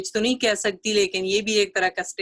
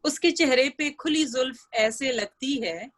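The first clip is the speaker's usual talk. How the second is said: measured, lilting verse reading; ghazal recitation; 3 semitones higher than usual. Acted. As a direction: recite the couplet for a mushaira audience.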